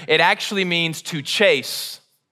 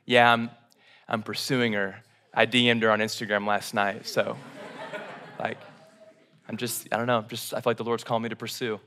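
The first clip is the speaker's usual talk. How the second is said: put-on low, soft, mumbling young Christian guy; hammed-up sheepish churchgoer; mock Christian bro; 8 semitones lower, 8 dB quieter, faster than usual. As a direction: lampoon a guy bragging he's pursuing her. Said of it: "We use it romantically".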